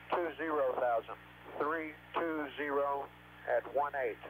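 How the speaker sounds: clipped callouts over a radio link; crackly military radio. Real, not acted. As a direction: read numbers like a pilot on comms. Pilot radio callouts from aircraft.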